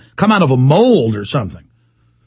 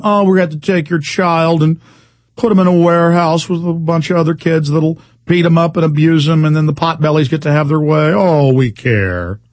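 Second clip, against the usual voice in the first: a lightly voiced smug caseworker, slowing at the end; mock caseworker voice. Host mocking child services staff, in a lightly smug put-on voice. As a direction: sneer it out as a fake-caring official.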